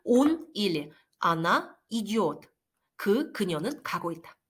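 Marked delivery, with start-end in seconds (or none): 0.0-2.4 very slow, careful Он или она идёт; slow demo. Shown as a demonstration. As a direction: spell out Он или она идёт slowly for learners. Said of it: "teacher demonstrating Russian conjugation". (학생들에게 또박또박 천천히 시범)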